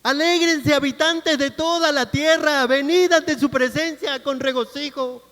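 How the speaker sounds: high, ringing call to rejoice; proclaimed scripture. Real, not acted. Preacher calls everyone to enter with rejoicing, proclaiming. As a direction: declaim the verse out to the whole congregation.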